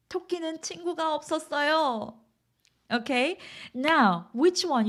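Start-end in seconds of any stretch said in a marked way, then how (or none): 0.1-2.2 "친구가 없었어요" held high to the end; stress on 친구가 없었어요. Shown as a demonstration. Continuing the sentence about 토끼, stress on "친구가 없었어요". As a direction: carry the weight onto "친구가 없었어요". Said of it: "You wanna emphasize 친구가 없었어요".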